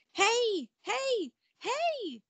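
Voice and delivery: high, loud calls of hey; yelling frog. Acted. Frog yelling at Ella from her pocket, loud and high. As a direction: shout after her to stop. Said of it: "yelled the frog".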